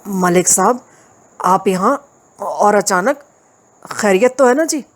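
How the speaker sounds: slow, unsure villager asking a policeman; wary and hesitant, voice going up at the end; hesitant, uneasy. Acted. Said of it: "मुतज़ब्ज़ब लहजे में". (झिझकते, घबराए लहजे में)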